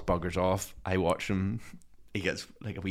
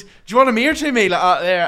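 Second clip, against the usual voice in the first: higher, louder lad threat; mock hard man; 10 semitones higher, 10 dB louder than usual. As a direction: square up like a wee hard man. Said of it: "he goes".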